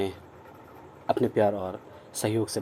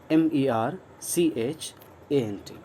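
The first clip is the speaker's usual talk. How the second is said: slow spelling out; slower than usual. Shown as a demonstration. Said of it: "letters spelled".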